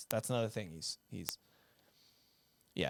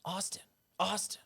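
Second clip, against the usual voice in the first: brother calling; 8 semitones higher than usual. Retold or imitated. Mimicking his brother calling him downstairs, high. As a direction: imitate little brother calling from the stairs. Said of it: "he comes downstairs and he goes".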